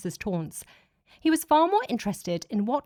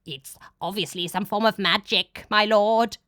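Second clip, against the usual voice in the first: nervous underling; 5 dB louder than usual. A narrator's reading. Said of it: "the underling said nervously".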